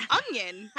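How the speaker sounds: "onion" said as "ungyun". Retold or imitated. Student answers drama teacher, "onion" said with a g. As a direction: put a hard g sound inside "onion". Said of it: "There's no fucking G in onion".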